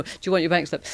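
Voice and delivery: quick, badly faked Italian accent. Italian returning her dropped bank slip, bad Italian accent. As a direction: rattle it off in a clumsy mock-Italian accent. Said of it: "do a bad Italian accent".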